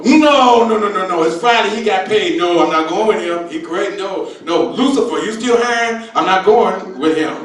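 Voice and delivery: an angel begging off the job; reluctant angel. Retold or imitated. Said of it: "And the angels would go".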